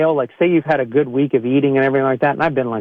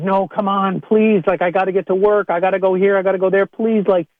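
higher, pleading bargainer; mock pleading, pitched up; 5 semitones higher than usual. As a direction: beg the locked car door, half-mocking. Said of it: "And you're like".

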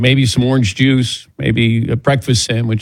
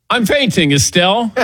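mock faint; 8 semitones higher than usual. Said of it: "I said".

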